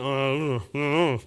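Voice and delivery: a mild groaned I don't know; half-hearted groan of a man who can't name his feelings. Retold or imitated. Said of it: "It comes out as a groan anyway".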